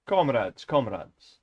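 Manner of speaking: trying out a Russian accent; Russian accent practice. Shown as a demonstration. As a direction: test a Russian accent on a falling call. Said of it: "practicing the, uh, Russian one".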